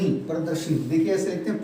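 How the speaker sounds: normal talking voice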